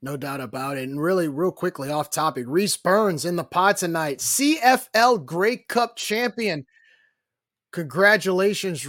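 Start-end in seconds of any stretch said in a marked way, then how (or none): 2.5-8.9 higher, slow, drawn-out champion intro; hyped announcement. Real, not acted. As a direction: announce a title winner with a proud build. Announcing friend's championship win on air.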